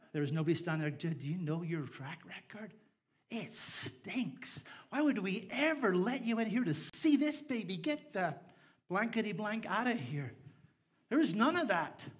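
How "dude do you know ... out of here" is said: mock indignant rejection. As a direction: turn them away in hammed-up outrage. Acts out a doorkeeper turning them away.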